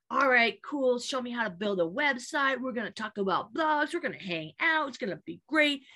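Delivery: cheerful, upbeat buddy; bouncy and eager; jovial. Retold or imitated. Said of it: "he's all jovial".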